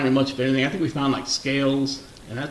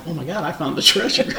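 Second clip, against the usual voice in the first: mock excited; 4 semitones higher, 4 dB louder than usual. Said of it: "I'm all excited".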